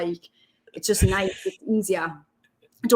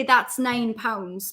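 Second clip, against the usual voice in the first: Geordie nine; much slower than usual. Retold or imitated. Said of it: "I'd say".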